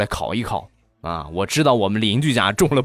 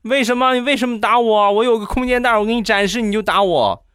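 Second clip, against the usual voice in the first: put-on aggrieved kid; 11 semitones higher than usual. Spanked boy asking his mother why, high aggrieved whine. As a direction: protest like a hurt little boy. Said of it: "很委屈".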